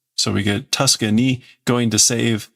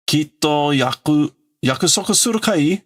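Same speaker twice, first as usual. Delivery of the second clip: Atom's voice; 5 semitones higher than usual. Retold or imitated. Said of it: "Atomo's the one that typically talks like this".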